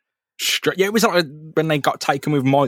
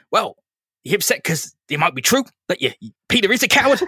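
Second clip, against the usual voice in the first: dad's jab; 7 semitones higher, faster than usual. Retold or imitated. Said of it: "He says".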